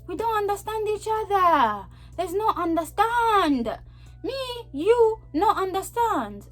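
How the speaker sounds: high-pitched, drawn-out plea; exasperated broken English. Acted. Two people not understanding each other, exasperated high voice. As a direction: stretch each word as if to a foreigner.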